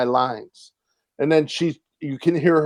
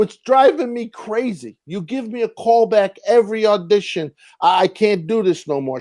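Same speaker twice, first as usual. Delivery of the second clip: higher, exasperated rant at the casting director; fed-up complaint, pitched up and pushing; exasperated outburst retold; 6 semitones higher than usual.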